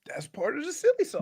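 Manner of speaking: whispered joking aside. Real, not acted. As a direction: whisper it like a secret.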